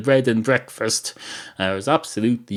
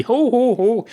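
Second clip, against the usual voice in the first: high, loud fake "ho ho ho"; put-on jolly barman laugh, pitched way up; mock chuckle; 5 dB louder than usual. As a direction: laugh theatrically at your own little joke. Barman laughs at his own joke.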